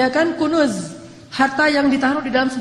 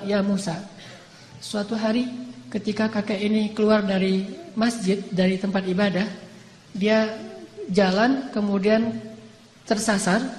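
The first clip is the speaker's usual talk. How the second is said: lower, softer divine storyteller voice; calm voice of God; 3 semitones lower, 3 dB quieter than usual. Acted. God explains to Musa, low calm voice. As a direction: speak as God, calm and measured.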